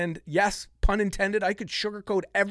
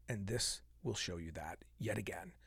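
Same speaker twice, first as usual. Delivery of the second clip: whisper; 11 semitones lower, 15 dB quieter than usual. Real, not acted. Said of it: "whispered aside".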